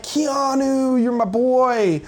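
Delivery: imitating an adoring fan's holler; mock fan yell. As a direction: hail your hero without really shouting. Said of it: "I just yell, like, I was yelling".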